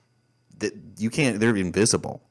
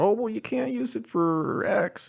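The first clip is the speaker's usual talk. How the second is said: mocking officials. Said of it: "all these treaties about".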